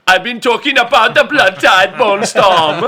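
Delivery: put-on a light Australian accent slipped into a joke. Joking that he's under an NDA, in a light Australian accent. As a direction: half-jokingly drift into Australian. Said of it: "Is that your Australian".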